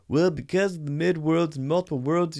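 mock someone making a feeble defense; mocking film defender. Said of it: "going to defend it by saying".

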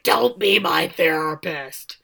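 slow, emphatic mock outburst; retold freak-out. Gina to Charlie about playing therapist, mock freak-out. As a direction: push each word out in mock annoyance. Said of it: "and freaks out".

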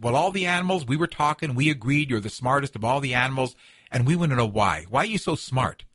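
a hint of an eager little animal; trickster tale voices. Badger explains and asks.

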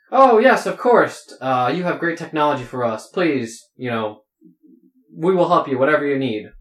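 high, loud eager agreement; hammed-up delighted yes, then settling down; eager dwarves. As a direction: gush it out like overjoyed stage dwarves.

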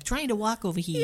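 put-on New York accent. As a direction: quote it as a New Yorker. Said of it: "people with the New York accents".

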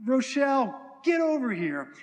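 high, loud call across a room. Acted. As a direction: call someone over from a distance. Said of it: "this audible voice of saying".

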